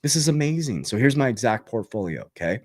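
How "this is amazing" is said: amazed. Retold or imitated. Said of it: "I'm like".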